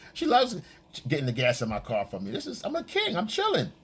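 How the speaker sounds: mock smug boyfriend. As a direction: gloat like a lazy king. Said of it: "and you're like".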